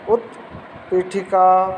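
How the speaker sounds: उत्पीठिका drawn out slowly, syllable by syllable; slow clear pronunciation. Shown as a demonstration. Teacher models उत्पीठिका slowly for students. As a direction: spell out उत्पीठिका slowly for the class to repeat. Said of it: "जोर जोर से उच्चारण करोगे".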